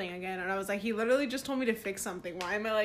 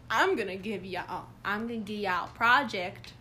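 a light, imperfect Missouri twang; attempted Missouri accent. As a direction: imitate a Missouri band director, half-successfully. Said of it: "I can't do his accent".

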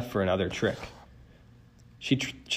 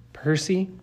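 nervous query; 8 semitones higher than usual. A narrator's reading. Grover nervously seeking Percy's attention.

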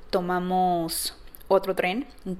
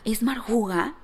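plain voice, a touch louder. Retold or imitated. Out loud to Josué as the woman gets closer, asking. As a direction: say the name aloud to her husband, questioning. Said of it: "entonces lo dije en voz alta".

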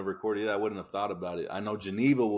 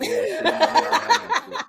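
squeaky high, loud, laughing put-on voice; mock self-scolding; 8 dB louder than usual. The speaker mocking herself for skipping water, high laughing squeal. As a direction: ham it up, shrieking at yourself. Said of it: "I remember saying that, like".

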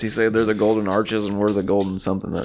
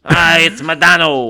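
high, loud, drawn-out mock cry; mock calling out; 8 semitones higher, 9 dB louder, slower than usual. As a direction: stretch out a hammy greeting. Mock call, repeating the joke name.

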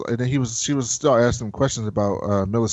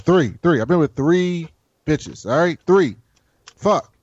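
higher, defensive and exasperated; flustered admission; 5 semitones higher than usual. Acted. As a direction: blurt it out, cornered and embarrassed. Gendry flustered admitting his count.

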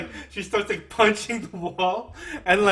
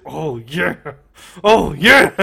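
mock moaning; 9 dB louder, slower than usual.

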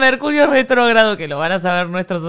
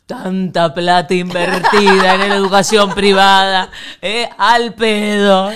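mock scolding mother, slower; lightly voiced annoyed mom; imitating mom; 7 dB louder, slower than usual. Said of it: "mi mamá en este momento diría". (imitando a mamá regañando)

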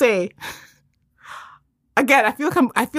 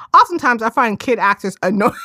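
laughing. Real, not acted. Reading comment, laughing.

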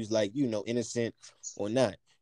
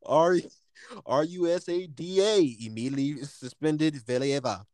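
news reporter voice; 3 semitones higher than usual. Shown as a demonstration. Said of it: "let me get my news reporter voice".

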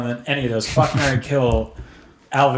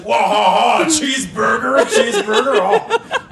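French tourist; 10 semitones higher, slower than usual. Acted. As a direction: gush like an amazed French tourist. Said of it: "if a French guy came to America".

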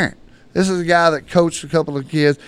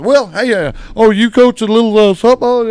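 curious stranger; 8 semitones higher, 7 dB louder than usual. Retold or imitated. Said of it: "and he goes".

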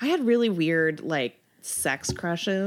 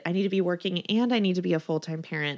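fast, breathless list of demands; rushed inner list; faster than usual. Retold or imitated. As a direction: rattle it off faster and faster. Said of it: "you're constantly trying to be like".

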